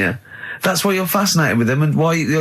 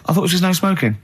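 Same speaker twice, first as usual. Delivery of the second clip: raised pitch, awkward polite query; self-mocking retelling; 4 semitones higher, faster than usual. Diner querying the waitress about smokers, awkwardly put on. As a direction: replay your own odd, higher-pitched objection. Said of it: "I don't know why I said it like this".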